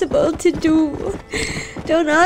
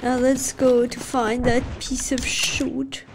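soft, furious whisper; 4 semitones lower, 7 dB quieter than usual. Real, not acted. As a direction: whisper through the anger. Whispered vengeful aside to viewers.

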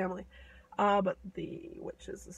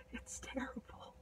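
hushed, breathy warning; whispered aside; 15 dB quieter than usual. A narrator's reading. Narrator warning listeners about the robber girl, whispered. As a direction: whisper it like a scary secret.

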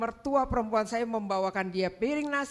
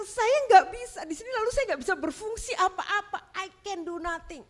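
much higher, louder pleading lament; upset complaint; 9 semitones higher, 5 dB louder than usual. Retold or imitated. Wife complains to husband she can do nothing, high plaintive. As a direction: plead that you are useless here.

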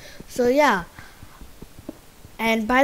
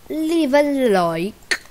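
drawn out; 6 semitones higher, 8 dB louder, slower than usual. Acted. Drawn-out outro plea.

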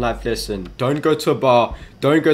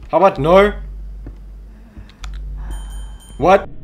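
loud refusal; 6 semitones higher, 4 dB louder than usual. Real, not acted. Refusing the game's request.

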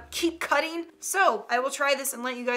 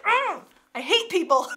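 lightly acted exasperation, pitched up; mock fed-up grumble, a bit higher; frustrated outburst; 5 semitones higher than usual. Venting to viewers about anger, mock frustrated. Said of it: "You're just like".

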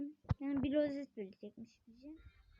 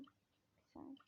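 under the breath; whispered aside; 19 dB quieter, much slower than usual. Real, not acted. Gamer whispers to himself while fixing a mistake. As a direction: whisper it to yourself.

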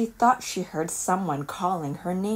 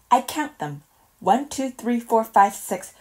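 higher eager counting; counting squirrel; 5 semitones higher, 3 dB louder than usual. Acted. Handler shows Olive how he counts nuts. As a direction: tick off numbers like a proud squirrel.

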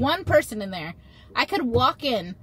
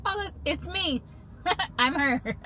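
higher, laughing admission; amused realization; 6 semitones higher, 4 dB quieter than usual. Real, not acted. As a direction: catch herself with a laugh. Realizing she is the heroine.

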